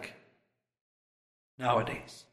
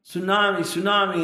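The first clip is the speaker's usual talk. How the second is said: mild repeated mock yell, pitched up; imitated yelling; 5 semitones higher than usual. Preacher retelling the man's repeated warning, mild mock yelling. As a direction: imitate repeated warning cries without full volume. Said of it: "he just kept yelling".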